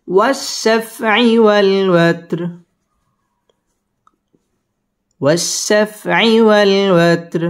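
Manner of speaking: slow chanted recitation with rounded و; Quran recitation. Shown as a demonstration. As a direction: stretch والشفع والوتر slowly like tilawat. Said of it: "ওয়াও ঠোঁট গোল করে উচ্চারণ করতে হবে".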